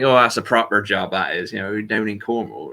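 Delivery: demonstrated Cornish pirate-like accent. Shown as a demonstration. Showing a friend how Cornish sounds, in Cornish accent. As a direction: talk like a Cornish local. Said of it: "if you talk Cornish".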